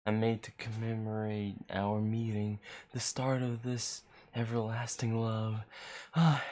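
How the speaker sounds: lightly voiced creepy stalker; a hint of an obsessed admirer; creepy guy voice. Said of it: "That was a pretty good creepy guy voice".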